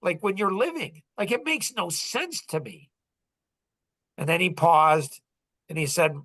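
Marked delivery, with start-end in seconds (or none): 0.0-2.9 mildly exasperated questioning, pitch climbing toward the end; understated, frustrated pleading; retold frustration. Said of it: "Why are you angry and frustrated".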